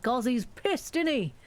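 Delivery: a hint of a chummy British gossip; British aside. Streamer mocking her own Britishness, chatty Brit. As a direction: say it like a Brit at the pub. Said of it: "The Brit popped out".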